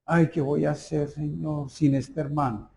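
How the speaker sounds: mild despairing prayer. Retold or imitated. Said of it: "el pastor se colgó y dijo".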